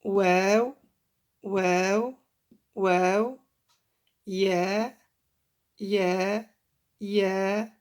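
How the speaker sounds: واو, يا, نون, ها each repeated alone with a long held vowel; letter-name demo. Shown as a demonstration. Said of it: "on prononce comme ça les lettres".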